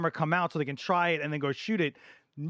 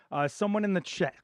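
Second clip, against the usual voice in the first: hoarse, fading voice; losing voice; 2 semitones higher than usual. Real, not acted. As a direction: voice giving out. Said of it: "I'm losing my voice again".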